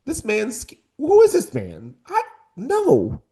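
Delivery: high, scoffing dismissal; mock dismissive rant. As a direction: brush him off, disgusted. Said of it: "I was like".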